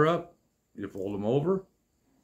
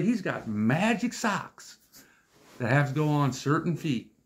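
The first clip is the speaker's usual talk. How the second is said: mock wonder; 3 semitones higher than usual. Real, not acted. Mocking the neighbor's left-right socks.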